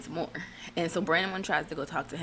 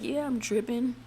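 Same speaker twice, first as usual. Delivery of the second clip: higher-pitched imitation of an aggrieved man; put-on protest fading into blah-blahs; mock protesting husband; 6 semitones higher than usual. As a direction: mimic his complaint in a raised voice. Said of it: "it was funny how he said it".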